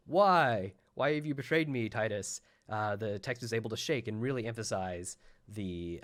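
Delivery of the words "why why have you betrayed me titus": mock yell, loud higher 'Why' easing off; imitated angry yell. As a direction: play a centurion yelling at a traitor, lightly. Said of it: "when the Centurion is yelling at you".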